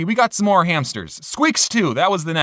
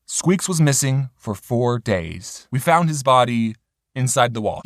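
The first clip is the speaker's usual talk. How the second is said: mock dramatic; 7 semitones lower, slower than usual. Dramatic mock-tragic hamster tale.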